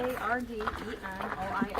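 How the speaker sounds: letters A R D E N O I S spelled slowly one by one; spelling it out. Shown as a demonstration. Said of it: "Tar-, Tardenois?".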